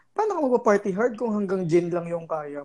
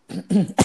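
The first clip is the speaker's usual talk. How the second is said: phlegmy throat clearing; 4 dB louder than usual. Real, not acted. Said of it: "May plema-plema pa".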